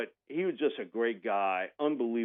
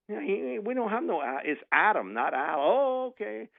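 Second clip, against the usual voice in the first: excited retelling; 11 semitones higher than usual. Retold or imitated. Retold correction about the name.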